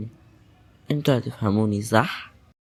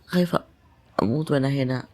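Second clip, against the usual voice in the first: scared; 5 dB quieter than usual. Acted. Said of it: "بجد انا بقيت خايفة".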